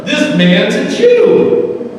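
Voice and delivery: loud, slow, firm rural father; stern farmer. Retold or imitated. Farmer to his sons about the Jewish driver, loud and slow, firm. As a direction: lay down the law to the boys.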